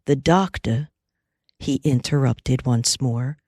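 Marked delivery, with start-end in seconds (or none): 0.1-0.9 very gentle. Acted. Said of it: "but very gently now".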